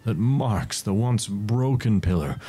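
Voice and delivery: sweeping fantasy storyteller voice; epic narration. Acted. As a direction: carry them up the mountain. GM resumes narration.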